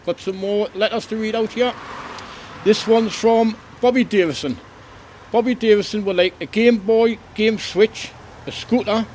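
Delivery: cheery Father Christmas reading letters; Santa voice. Acted. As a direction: read the kids' letters as a jolly Santa. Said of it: "This is Santa back again".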